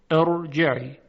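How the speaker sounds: ارجعی opening on a clear i, then heavy r; initial hamza sounded. Shown as a demonstration. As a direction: start ارجعی with the hamza voiced.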